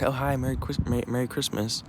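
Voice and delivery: friendly greeting. Retold or imitated. Passers-by wishing Merry Christmas, mildly friendly. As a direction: lightly imitate friendly passers-by. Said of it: "they were so friendly".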